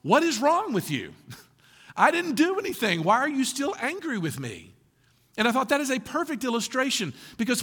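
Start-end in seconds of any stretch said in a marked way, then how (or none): 0.0-4.7 a touch of exasperated husband, pitched up with a laugh; hint of a baffled husband protesting innocence; puzzled husband. Pastor voicing husband confused by wife's dream anger. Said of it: "And he was like".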